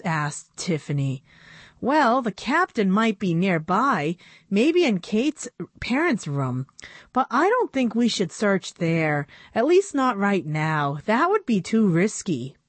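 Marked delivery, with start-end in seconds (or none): 1.8-12.6 put-on slightly higher girlish voice; a hint of a young girl pleading; lightly voiced young girl. Narrator voices Annabelle.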